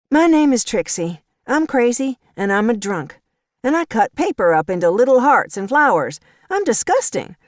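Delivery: a touch of sarcastic, tipsy mockery; mock yourself, giggling bitterly; mock confession. Trixie mocking Anna Ruth's insults with a giggle. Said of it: "held up her hand and giggled".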